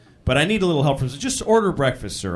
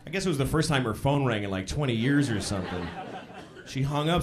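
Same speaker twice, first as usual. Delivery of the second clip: ordinary talk, nothing marked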